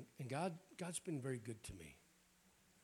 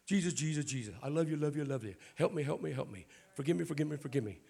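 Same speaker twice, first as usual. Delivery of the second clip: loud, pleading, repetitive mock prayer; hammed-up begging churchgoer; imitating a puny prayer; 3 semitones higher, 7 dB louder than usual. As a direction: beg the same words over and over in a hammed-up pray. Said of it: "stop praying these minuscule, dwarf".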